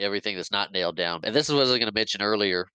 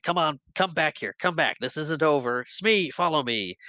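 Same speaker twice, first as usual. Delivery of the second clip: Hook shouting; 7 semitones higher than usual. Retold or imitated. Hook shouting after the departing Peter, high angry call. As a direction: bellow after him, furious.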